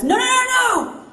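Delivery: ऊँची, तेज़ चीख़ कर मना करना; घबराकर ज़ोर से नहीं नहीं चिल्लाना; alarmed shout. Retold or imitated. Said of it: "the pilot command says".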